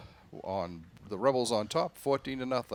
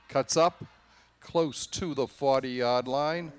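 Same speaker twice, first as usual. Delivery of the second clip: excited call; 4 dB louder than usual. Real, not acted. Runner cuts upfield.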